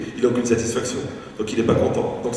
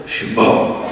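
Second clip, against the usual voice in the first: mock exhausted sigh; 6 dB louder, much slower than usual. Tired people mimicked.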